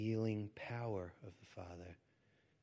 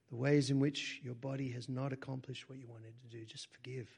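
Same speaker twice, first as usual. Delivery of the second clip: louder, urgent plea to forgive; fervent preaching; 3 semitones higher, 6 dB louder than usual. Real, not acted. Preacher urging the listeners to forgive themselves, fervent. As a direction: press the words home with force.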